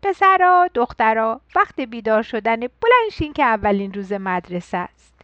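loud wake-up call that settles down; papa mouse yelling up the stairs, then calmer; father mouse shouting. Acted. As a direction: call the kids out of bed like a dad. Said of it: "بابا موشه داد زد و گفت".

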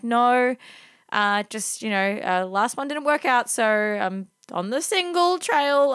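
retold awkward oversharing, pitch creeping up; hesitate, then admit it awkwardly; awkward honesty. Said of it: "gets really awkward".

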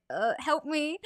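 small, high-pitched mock plea; retold helpless appeal, lightly played; pleading. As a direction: squeak out a discreet plea for rescue. Retold silent plea to cashier.

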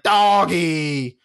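put-on loud, drawn-out little-kid call; excited kid. Carson seeing Chewy walk past, excited kid imitation. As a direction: imitate a child spotting a dog.

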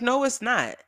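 high-pitched retold objection; indignant denial. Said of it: "And I got mad".

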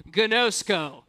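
gnosko chanted as kuh-NO-sko; over enunciating. Real, not acted. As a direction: call out gnosko clearly. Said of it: "Everybody say gnosko".

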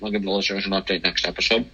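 talking through a mouthful of cereal; chewing while talking; mouth full. Real, not acted. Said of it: "Sorry, I'm eating kashi".

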